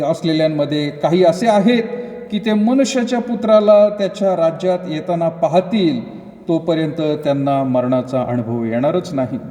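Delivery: formal Bible recitation; scripture reading. Acted. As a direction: read the verse out in spaced, measured phrases. Reads scripture aloud.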